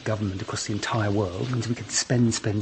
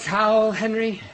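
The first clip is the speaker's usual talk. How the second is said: higher, louder urgent call for the towel; repeating the request, raised and pressing; 9 semitones higher, 5 dB louder, slower than usual. Acted. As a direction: call out to Henry, impatient. Soap in eye, asks again.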